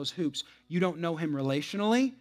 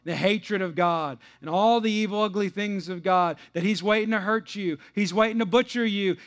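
high, loud preaching at full force; impassioned preaching; 5 semitones higher, 8 dB louder than usual. Real, not acted. Preacher pleading that God gets a chance, impassioned and loud. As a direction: build to an urgent, shouted plea.

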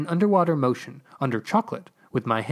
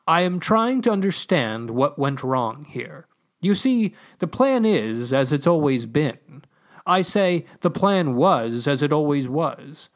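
exasperated voice from above; 2 semitones higher than usual. Acted. Voice from above explaining its trouble to the diggers, frustrated. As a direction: play a put-upon unseen authority.

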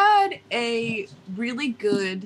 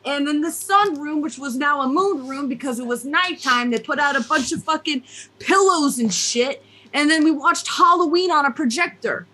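animated put-on Jersey accent; 3 semitones higher than usual. Host describing a cozy movie night, animated Jersey accent. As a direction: keep the story rolling in lively Jersey. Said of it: "We're just gonna go with it".

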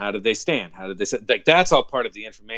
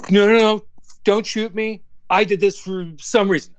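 mock panicked plea; 8 semitones higher, 4 dB louder than usual. Acting out the audition line.

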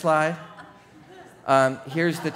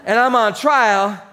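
declaimed in punched phrases, building louder; mock oratorical shout; 6 semitones higher, 5 dB louder than usual. Paul rallying brothers on the council, building declamation. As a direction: proclaim it to a divided council. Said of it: "So he shouted".

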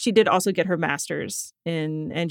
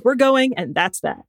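barked; 4 semitones higher than usual. Acted. Dad ending the argument, firmly barked. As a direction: put your foot down as a fed-up parent. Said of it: "he barked, slamming his fist down".

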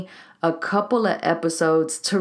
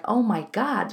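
higher, mortified exclamation; 4 semitones higher than usual. Retold or imitated. Coach recalling her ten plus hours online, mortified. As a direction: retell an embarrassed moment of realisation. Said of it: "I was mortified. I was embarrassed".

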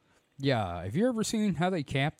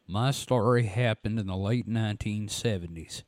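lightly voiced Southern reader; a hint of a drawling storyteller; Phantoms and Monsters voice. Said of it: "my Phantoms and Monsters voice".

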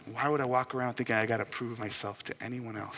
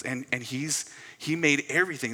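put-on excited young son; 3 semitones higher, 4 dB louder than usual. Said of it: "This is now Liam talking".

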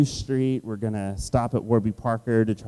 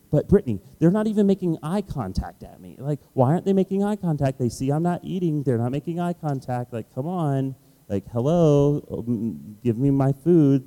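raised, fast griping to his wife; whiny complaining; 5 semitones higher, 3 dB louder than usual. Retold or imitated. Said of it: "And I'm just complaining".

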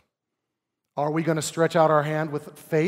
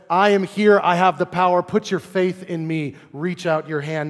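bold, louder call of Jesus to the withered man; voicing Jesus; 4 dB louder than usual. Preacher voicing Jesus calling the man to reach out, loud and commanding. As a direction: proclaim it like Jesus commanding with power.

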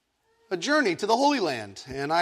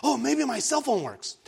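high-pitched, mock-anxious thoughts; bubbling-up panic; 7 semitones higher than usual. Stranded in a foreign country, mock panic. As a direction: let the worries spill out in acted panic. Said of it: "all of the things are, like, bubbling up in me".

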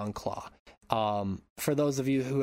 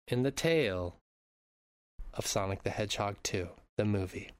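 measured, mock-grand invitation with long pauses; storyteller intro. Host inviting listeners to the fireside, storyteller intro voice. Hosts the show's scripted intro.

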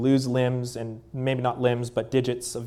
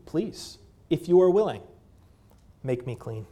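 imitated plea. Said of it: "here's my prayer and my plea to you".

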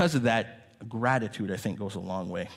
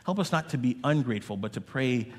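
prayer. Acted. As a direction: pray earnestly over the room. Pastor prays for the congregation.

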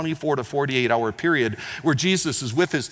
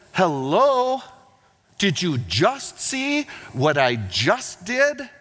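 exasperated hello; 2 semitones higher, much slower than usual. Retold or imitated. Exasperated Jesus mocks demand for sign.

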